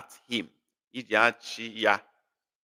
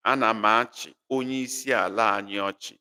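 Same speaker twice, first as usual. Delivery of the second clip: quick run-through; faster than usual. Shown as a demonstration. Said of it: "it will be".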